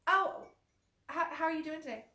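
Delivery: high, loud chirpy "how are you"; bright fake-cheery greeting; sing-song small talk greeting; mock bright greeting. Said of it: "how many times have you said".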